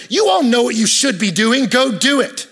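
mock preaching. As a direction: belt it out as a kid's imagined sermon. Son's imagined blunt sermon, acted.

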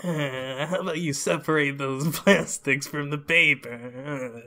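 silly whining machine voice; whiny robot. Acted. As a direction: whine like a nagging eco-robot. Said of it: "a weird whine to him".

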